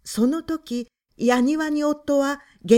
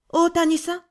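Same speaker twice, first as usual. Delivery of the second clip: a caller calling more sharply through the door; sharper, a little louder and higher; 6 semitones higher, 3 dB louder than usual. A narrator's reading. Woman at the door, insisting, sharp. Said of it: "今度はちょっと鋭い語調でした".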